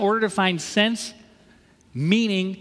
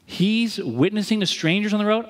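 raised setup line; observing a model. Retold or imitated. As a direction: lift it like noting what someone else does. Contrasts friend with his copying.

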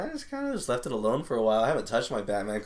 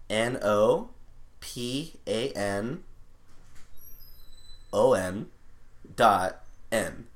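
slow spelling; much slower than usual. Real, not acted. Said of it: "trying to type it as I'm saying it".

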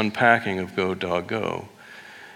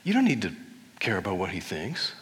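higher, sassy best-friend encouragement; lightly voiced sassy friend; sassy girlfriend pep talk; 5 semitones higher than usual. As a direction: hype up your girlfriend. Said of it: "saying, like".

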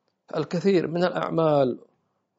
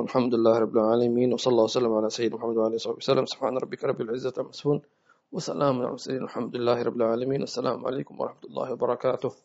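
closing prayer; 4 dB quieter, faster than usual. Acted. Closing formula of the session.

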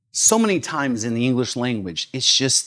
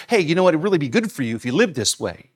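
casual suggestion; 2 semitones higher, faster than usual. Retold or imitated. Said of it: "He's not saying".

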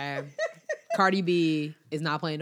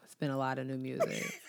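saying it through a laugh; giggling while repeating it; 2 semitones lower, 7 dB quieter than usual. Shown as a demonstration. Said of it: "Just say it one more time".

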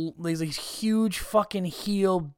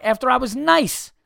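louder, high-pitched protest; indignant; 8 semitones higher, 5 dB louder than usual. Real, not acted. Telling of the pissed-off look he got, indignant. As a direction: protest the injustice, pitch jumping up.

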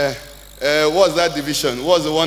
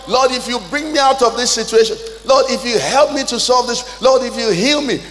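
mock pleading prayer, a little higher; 4 semitones higher than usual. Believer in trouble bargaining with God, pleading. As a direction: beg the Lord like someone in trouble.

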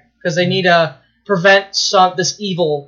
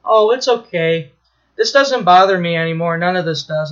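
calm. Retold or imitated. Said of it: "They're, they're that calm".

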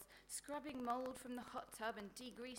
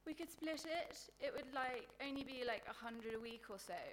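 put-on hopeful ditzy girl; 3 semitones higher, 3 dB louder than usual. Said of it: "she said hopefully".

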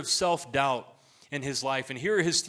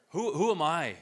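"Who, who am I" stammered on the first word, slightly raised; self-doubting inflection; 3 semitones higher, 3 dB louder than usual. Shown as a demonstration. Inner loop questioning one's worth, self-doubting inflection. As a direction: stumble on "Who" as if doubting yourself. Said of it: "it's the inflection that makes it".

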